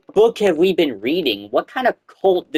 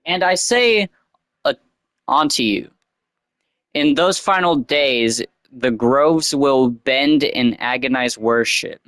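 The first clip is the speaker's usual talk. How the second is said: mock sermon. Reading the cult prophecy aloud, mock sermon. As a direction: proclaim it like a prophet.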